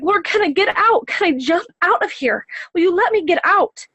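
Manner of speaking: high-pitched pleading, retold; urgent plea. Woman asks the Lord to let her out, urgent plea. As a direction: beg to be let out, voice lifted high.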